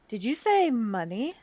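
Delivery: soft, low questioning voice; kind, slightly hoarse. A narrator's reading. Game character checks what the beggar said, kind soft voice. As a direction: ask it gently, low and quiet. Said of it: "Her voice is kind, a little hoarse from the wind".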